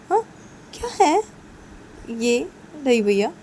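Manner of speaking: high, loud, rushed chatter to her brother; sister's voice, squealing with surprise; excited sister Rani. Acted.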